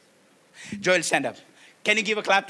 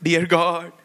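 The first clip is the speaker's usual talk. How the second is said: soft pleading prayer; gently voiced kneeling prayer; mock prayer; 2 semitones lower, 6 dB quieter than usual. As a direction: pray as a humble man. Acted prayer, repeated by the speaker.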